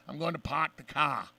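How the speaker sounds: lightly done, terrible Boston accent. Shown as a demonstration. Host mocking overdone movie accents, bad Boston accent. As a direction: drop the r's in a mock Boston accent. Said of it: "that's a terrible Boston accent".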